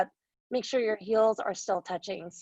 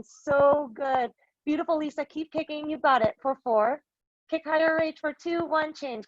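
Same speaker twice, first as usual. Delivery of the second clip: higher-pitched cheering through the final count; urging encouragement; 6 semitones higher than usual. Real, not acted. Coach cheers class through final push.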